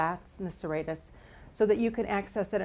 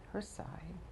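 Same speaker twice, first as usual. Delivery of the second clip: whispering; 12 dB quieter than usual. Real, not acted. Speaking softly while leaning into the massage.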